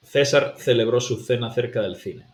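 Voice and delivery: César celebró with every C as th; Castilian th. Shown as a demonstration. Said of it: "C, C".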